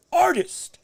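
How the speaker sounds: "artists" whispered, high and airless; hushed "artists" after "not mixed martial artists". Real, not acted. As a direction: breathe "artists" as a reverent aside. Whispered correction, true artists.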